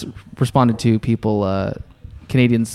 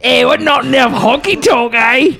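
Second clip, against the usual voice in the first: put-on Canadian accent; 11 semitones higher than usual. Host copying cohost's Canadian bit, mock Canadian accent. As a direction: repeat it as a hammed-up Canadian. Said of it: "What country was that?".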